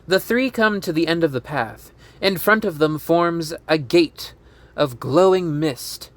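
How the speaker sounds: measured storyteller reading stage directions; script narration. A narrator's reading. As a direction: read the scene out clearly. Reads script scene description.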